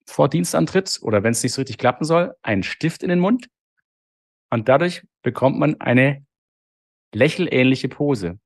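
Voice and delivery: talking with a pen between the teeth; words squeezed around a pen held in the mouth. Shown as a demonstration. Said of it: "ich mach's mal vor".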